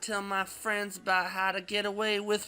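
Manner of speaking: high, loud bad Michael Caine rising to a shout on hand; bad Michael Caine accent. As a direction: ham up a Michael Caine impression. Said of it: "terrible Michael Caine accent I'm doing".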